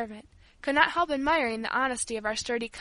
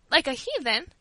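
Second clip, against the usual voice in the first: "Like a heathen?" raised as a disbelieving question; shocked cry; 4 semitones higher than usual. A narrator's reading. Old servant repeats the girl's accusation, shocked. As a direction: echo the accusation, taken aback. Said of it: "cried poor Teresa".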